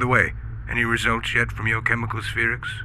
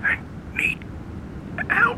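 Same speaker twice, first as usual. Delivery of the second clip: dramatic plea. Acted. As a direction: break into a desperate cry.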